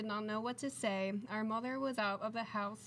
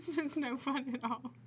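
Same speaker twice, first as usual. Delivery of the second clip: 1 laughing fish line; 3 semitones higher than usual. Real, not acted.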